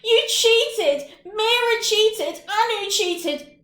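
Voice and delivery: high, loud tearful wail of accusation; loud, high, sobbing cry of being cheated. Acted. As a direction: wail it through tears, like a wronged small boy. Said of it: "to cry".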